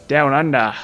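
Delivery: mock Australian. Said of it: "I can do an Australian".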